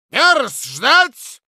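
put-on slow, high, loud old voice; old man's command. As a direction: snap it like a stubborn old man. Old man repeats command.

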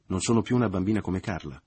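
loud, wounded protest; resentful, moved. A narrator's reading. Mother insisting to Leo, resentful and moved. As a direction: protest with hurt pride. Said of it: "in tono risentito e commosso".

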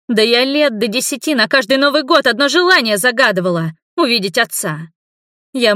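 daughter breaks down shouting at her father; tearful shouting. A narrator's reading. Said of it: "со слезами продолжала кричать девушка". (кричит сквозь слёзы, выше и громче)

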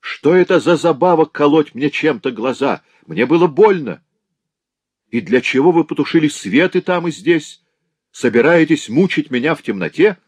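high, loud angry demand; anger. Acted. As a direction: hurl accusations in rage. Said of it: "в голосе его прозвучало не страдание, а гнев".

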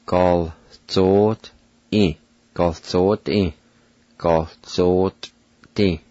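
Gal zot i with the I and V dropped; silent letters. Shown as a demonstration. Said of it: "It's pronounced like this".

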